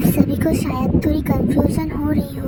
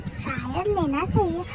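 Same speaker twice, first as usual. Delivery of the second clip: tearful plea; 4 dB quieter than usual. Acted. Sister pleads, on verge of tears.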